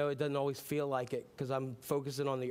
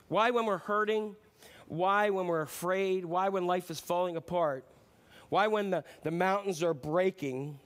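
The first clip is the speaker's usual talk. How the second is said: rising preaching; 4 semitones higher, 5 dB louder than usual. Real, not acted. Preacher building rhetorical questions.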